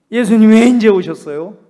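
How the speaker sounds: loud wailing plea, voiced as the sister; grieving sister cries out loud to Jesus; crying out. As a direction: cry out to Jesus in grief, loud. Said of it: "이렇게 울면서 울부짖는 것을".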